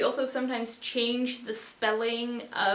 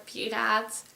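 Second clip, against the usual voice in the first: piraat with the stress on "raat"; stress on last syllable. Shown as a demonstration. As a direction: say piraat in Dutch, stressing the heavy final syllable. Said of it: "they're almost always stressed".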